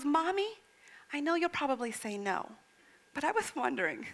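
lightly voiced child asking timidly; a tentative, sweet little plea to mom. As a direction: imitate a small child gently asking. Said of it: "She's sweet as can be".

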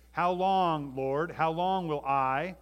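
loud, drawn-out cry to God; pleading lament. Acted. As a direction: call out in pleading protest. Acting out David's anguished plea.

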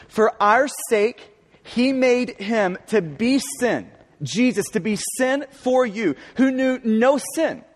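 each phrase of "For our sake, he made him to be sin" read slowly and deliberately, with weight on "our" and "made"; slow scripture reading. Shown as a demonstration. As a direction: read the verse slowly, letting every phrase land. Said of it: "Look at verse twenty-one".

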